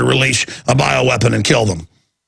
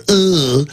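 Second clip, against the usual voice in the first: mock wordless grunt. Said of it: "stop using language entirely or just go with".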